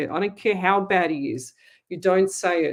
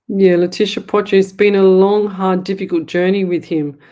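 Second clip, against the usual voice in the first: louder, pressing the point home to the viewer; emphatic loud; 7 dB louder than usual. Real, not acted. Psychic to a viewer in chat, loud and emphatic. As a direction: lean in hard on a long, hard journey.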